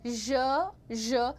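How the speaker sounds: ज as an isolated zh; z-sh blend. Shown as a demonstration. Teacher drilling students, ज blended with श. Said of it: "ज में श मिक्स करना है".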